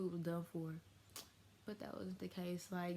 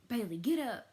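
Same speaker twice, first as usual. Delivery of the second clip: loud, higher mock command; imitated wake-up order; 5 semitones higher, 8 dB louder than usual. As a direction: imitate a relative ordering someone up. Relative rousing her in retold scene.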